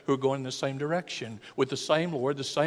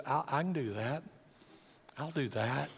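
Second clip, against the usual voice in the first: willing wife; 6 dB quieter than usual. Acted. Wife's willing answer, voiced by husband.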